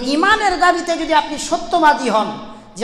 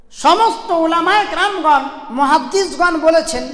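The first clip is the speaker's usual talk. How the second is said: rising preacher's call; 3 semitones higher than usual. Real, not acted. Preacher addressing the gathering, calling out with force. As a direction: lift the voice to declare it.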